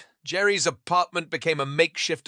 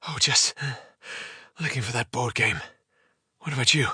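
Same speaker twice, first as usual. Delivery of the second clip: stammering. Acted.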